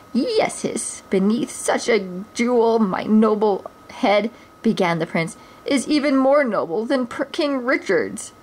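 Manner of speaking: lightly voiced pompous prince; a hint of a vain, childish prince. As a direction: preen over your own head.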